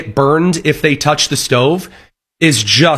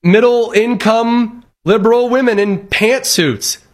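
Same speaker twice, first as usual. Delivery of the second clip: mock surprise; 5 semitones higher than usual. Mocking liberal women on train.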